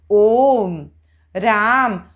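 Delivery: आ in "राम" stretched long; vowel held extra long; prolated vowel. Shown as a demonstration. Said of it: "जैसे हम बोलते हैं राम".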